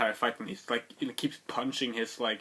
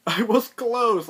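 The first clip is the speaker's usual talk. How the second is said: much higher and louder, laughing through it; laughing yell; 10 semitones higher, 7 dB louder, slower than usual. Retold or imitated. Narrator reliving his wrong guess, laughing yell. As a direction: yell it again while laughing. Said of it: "So I'm like".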